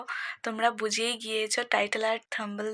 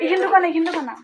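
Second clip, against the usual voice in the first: raised voice calling over; 6 semitones higher, 6 dB louder, faster than usual. Real, not acted. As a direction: call out across the street. Calling out to someone.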